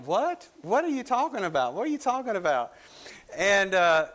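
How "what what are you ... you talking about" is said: high, fast, baffled questions; a clerk who can't follow a word. Retold or imitated. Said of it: "And he's like".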